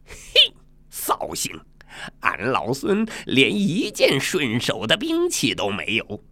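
a touch of monkey-king annoyance; lightly voiced peeved monkey hero; annoyed Sun Wukong. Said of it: "孙悟空气恼地把刀往地上一扔".

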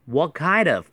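"What kind of" joined in one quick phrase; linked pronunciation. Shown as a demonstration. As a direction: run "kind of" together as "kai-dov". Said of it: "可以一起读哈". ("What kind of"连在一起读)

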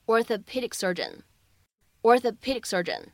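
"orthopedic surgeon" slowly, the c of "orthopedic" unreleased; incomplete plosive, slow. Shown as a demonstration. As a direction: hold back the c before "surgeon", slowly. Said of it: "存在一个不完全爆破的处理". ("orthopedic surgeon"的c不完全爆破)

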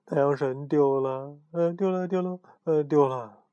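drowsy dream mumbling; sleep talking. Acted. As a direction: murmur like dreaming aloud. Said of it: "说着梦话".

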